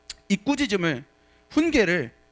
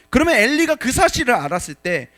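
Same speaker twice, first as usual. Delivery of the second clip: ordinary talk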